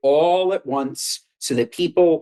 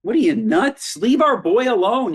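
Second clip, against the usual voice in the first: mock indignant defense; 6 semitones higher than usual.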